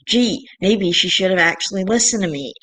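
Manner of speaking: breathy sarcastic gee, then dry; mock surprise, pointed. Real, not acted. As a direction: daughter sniping sarcastically about her mom. Sarcastic jab at mom.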